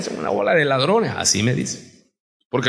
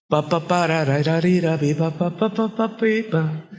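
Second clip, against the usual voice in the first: imitated drumming; 2 semitones lower than usual. Imitates drums and tongues.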